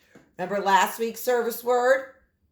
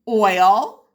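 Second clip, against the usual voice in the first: whisper; 8 dB louder than usual. Shown as a demonstration. Reads picture word softly.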